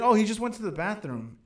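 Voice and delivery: casual, oblivious quote; innocent reply. Retold or imitated. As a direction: say it lightly, suspecting nothing. Retelling own innocent reply.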